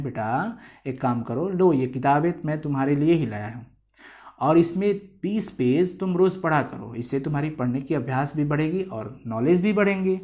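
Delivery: a hint of a coaxing father, half whispered at first; lightly voiced kind father handing over the book; gentle fatherly. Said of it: "ये इतने प्यार से नहीं बोलेंगे पिताजी".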